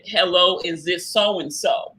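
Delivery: lightly voiced Southern lady on the phone; slow Southern drawl at the end; a hint of a Southern church lady. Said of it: "Southern black lady voice".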